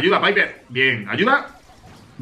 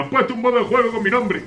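higher, mock-excited title voice; quoting his own video; 8 semitones higher, faster than usual. Streamer quoting his old video title, mock excited. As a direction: read it like a hyped video title. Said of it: "hicimos un vídeo".

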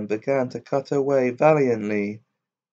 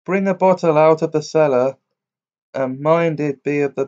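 loud, higher command to the cellar; calling out; 4 semitones higher, 5 dB louder than usual. Acted. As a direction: call out an order to the old woman. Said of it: "called to the old woman".

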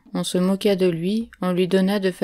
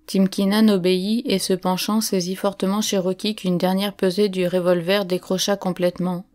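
plain reading voice

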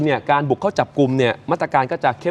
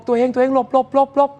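urgent warning; 8 semitones higher than usual. Retold or imitated. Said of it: "บอก".

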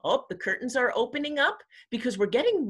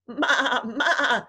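quavering, slightly raised goat cry; goat bleat; 4 semitones higher, 5 dB louder than usual. A narrator's reading. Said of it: "said the goat".

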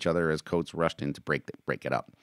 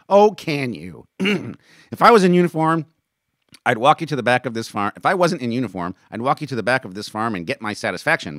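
loud, raised-pitch threat; angry challenge; 8 semitones higher, 8 dB louder than usual. Acted. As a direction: challenge him to a fight. Acted quarrel, threatening a fight.

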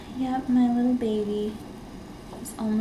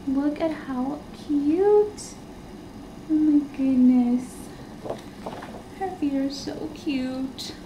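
tender cooing; 4 semitones higher, slower than usual. Real, not acted. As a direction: melt over how cute she is. Cooing over newborn's little feet.

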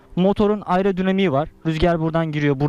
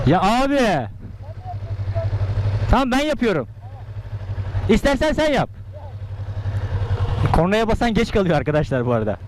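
raised voice calling over to friend; 7 semitones higher than usual. Real, not acted. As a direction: shout across to the other rider. Calling out across bikes at start. (yüksek sesle seslenme)

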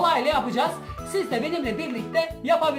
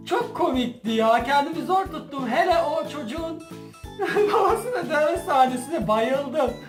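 trying not to laugh; 2 semitones higher than usual. Real, not acted. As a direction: giggle while recalling the scene. Recalling the funny videos.

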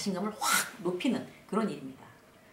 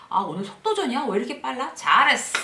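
raised, impressed voice building to a loud cheer; self-praise; 3 semitones higher, 7 dB louder than usual. Acted. Worker praising herself after finishing a report, excited. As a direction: marvel at yourself, then punch out the praise. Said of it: "무조건 날 칭찬하는 거죠".

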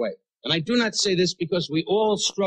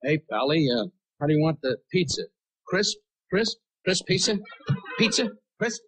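Sinatra voice. Retold or imitated. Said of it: "And the voice said".

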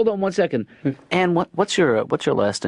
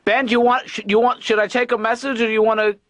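raised voice through a door; calling out; 8 semitones higher than usual. Acted. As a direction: call out so he hears from the bath. Dad calls through bathroom door.

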